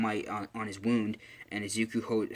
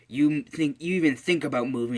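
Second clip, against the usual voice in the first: louder, higher tough-guy warning; acted threat; 4 semitones higher, 6 dB louder than usual. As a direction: threaten a pinned enemy, play-acting. Bakugo threatens pinned villain.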